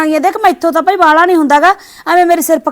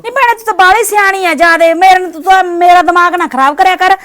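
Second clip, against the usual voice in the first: sharp raised scolding, sarcastic; quarrelling shout. Acted. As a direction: snap back at the old woman sarcastically. Daughter-in-law quarrels with old woman. (ਬਜ਼ੁਰਗ ਨੂੰ ਤਿੱਖੀ ਤਾਅਨੇ ਭਰੀ ਝਿੜਕ)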